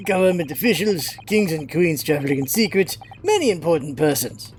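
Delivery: put-on lightly done Russian accent, gruff sailor; a proud, touchy Russian seaman. Sailor Stroganoff scolding the visitors, light Russian accent. Stroganoff boasts about cabins.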